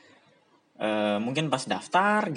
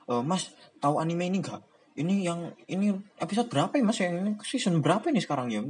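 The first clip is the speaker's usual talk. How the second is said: eager fan; 5 semitones higher, faster than usual. Retold or imitated. Stranger quizzing about anime.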